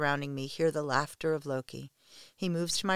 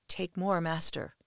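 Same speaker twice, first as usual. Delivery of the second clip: moaning; 4 semitones higher than usual. Acted. A submissive pleading with her master, moaning. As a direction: moan it, pleading and breathless. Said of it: "I moan".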